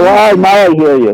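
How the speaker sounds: muffled voice over a bad phone line. Real, not acted. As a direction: talk as if through a wall. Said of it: "You sound muffled".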